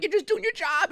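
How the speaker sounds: high, strained mock wail; pained screaming. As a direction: reenact reassuring someone while in agony. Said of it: "And I'm just screaming".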